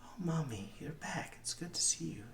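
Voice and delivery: put-on high-pitched child welcoming mommy back; little boy. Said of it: "the boy goes".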